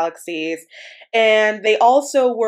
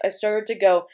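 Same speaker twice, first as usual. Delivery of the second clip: ordinary talk, nothing marked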